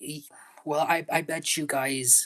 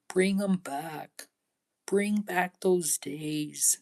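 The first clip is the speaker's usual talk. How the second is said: mock begging; 3 semitones higher than usual. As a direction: beg the park to bring the old days back. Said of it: "I'm just showing you how it makes me really feel".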